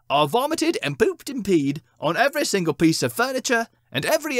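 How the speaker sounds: high, gloating cat voice. Acted. Cats brag to their king about evil deeds, high and gloating. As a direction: brag about every misdeed.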